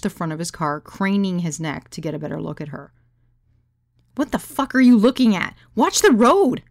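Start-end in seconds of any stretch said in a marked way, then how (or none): 4.2-6.6 loud, higher-pitched yell at the driver; angry scream. Acted. Passenger to her gawking driver, screaming. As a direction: yell it in alarm and outrage. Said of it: "I screamed at him".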